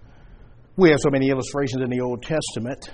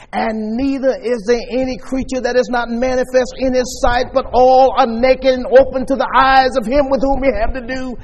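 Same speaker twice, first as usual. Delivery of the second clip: higher, steady pulpit recital; scripture recitation; 6 semitones higher, 3 dB louder than usual. Real, not acted. Preacher quoting God's Word to congregation, emphatic recitation. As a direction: recite it as one driving run, building in force.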